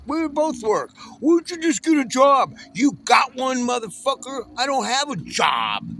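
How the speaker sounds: high, loud outraged shouting; angry shout. Real, not acted. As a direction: yell it at the people judging you. Ranting at people who judge him.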